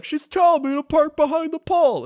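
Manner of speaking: high, loud baffled mock voice; confused driver. Retelling the confused driver's reply, high exasperated mock voice. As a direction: play the flustered driver, exasperated. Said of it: "he's like".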